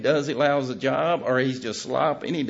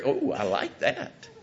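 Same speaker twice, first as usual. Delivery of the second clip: pleased listener; slower than usual. Retold or imitated. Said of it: "knowing that the people that are here".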